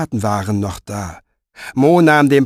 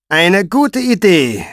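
high, slow silky mockery; smiling Pfeifer; 6 semitones higher, 5 dB louder, slower than usual. A narrator's reading. Pfeifer mocking the frightened soldier, slow and silky. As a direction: purr the words with a cruel smile.

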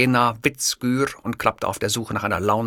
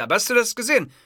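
outraged question; 12 semitones higher, much faster than usual. Acted. Host ranting at producer.

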